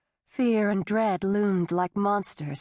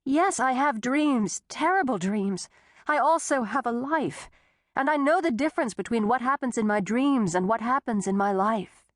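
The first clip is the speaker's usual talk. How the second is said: higher, trembling insistence; shaking, upset; 3 semitones higher than usual. Acted. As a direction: hold steady while shaking. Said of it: "She started to shake".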